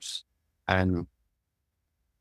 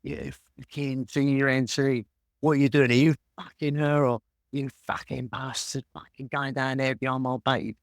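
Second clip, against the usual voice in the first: retold screaming abuse; 5 semitones higher than usual. Angry trader screaming at his new broker across the market, mock yelling. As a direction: bellow it like the furious boss across the market. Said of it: "just screaming at me".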